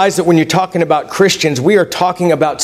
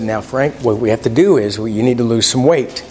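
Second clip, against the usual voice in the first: low, softened, gentle explanation; understated kindly doctor's tone; 7 semitones lower than usual. Retold or imitated. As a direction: break it to the patient kindly in a low voice. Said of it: "very kindly said".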